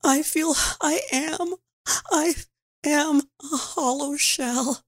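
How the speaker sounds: breaking into tears on the last words; crying. Acted. Lost little girl admitting despair, crying. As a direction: let the voice crack into crying. Child describing her despair.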